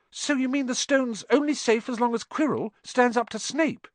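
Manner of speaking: high, tense voice of sudden alarm; a girl realising the danger. Acted. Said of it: "said Hermione in alarm".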